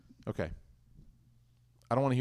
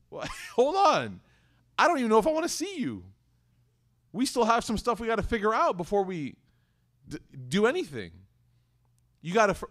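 offended reply; 5 semitones higher than usual. Retold or imitated. Offended partner pushing back on a breezy morning hello. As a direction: hold them off, clearly hurt.

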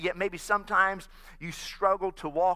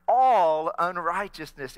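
loud, slow "All unrighteousness", "All" drawn out; slow it down so everyone joins; slower second try; 6 dB louder than usual. Shown as a demonstration. Pastor retrying when only two answered, slow and loud. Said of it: "Let's try that one more time".

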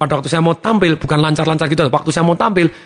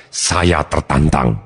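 slow positive reframe; 9 semitones lower, much slower than usual. Shown as a demonstration. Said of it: "Pilih jadi yang lebih positif bahkan dahsyat".

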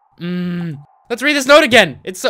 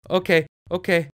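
ordinary delivery

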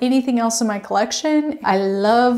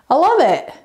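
"I love it" again, higher and louder with "love" punched; gushing repeat; 6 semitones higher, 4 dB louder than usual. Real, not acted. Vlogger gushing over her hanging cactus, higher, louder, stress on "love". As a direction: gush it, leaning hard on "love".

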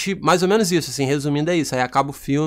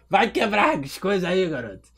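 Armandinho; 3 semitones higher, 4 dB quieter than usual. Shown as a demonstration. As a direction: scold a kid in a comic high voice. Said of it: "Vou fazer aqui pra você".

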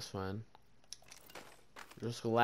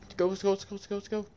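excited; 8 semitones higher, 5 dB louder, much faster than usual. Real, not acted. Hyped during game fight.

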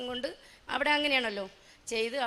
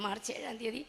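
much softer, തീയതി rising at the end; soft repeat; 7 dB quieter than usual. Real, not acted. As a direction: murmur it back with തീയതി lifting. (മൃദുവായി ആവർത്തിക്കുന്നു)

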